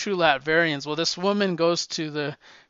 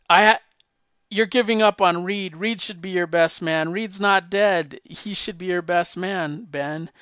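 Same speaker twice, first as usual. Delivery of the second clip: raised, louder retold outburst, half-acted; flipping out; 3 semitones higher, 4 dB louder than usual. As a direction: imitate the Torch snapping at Ben, mock-angry and loud. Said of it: "But he flips out".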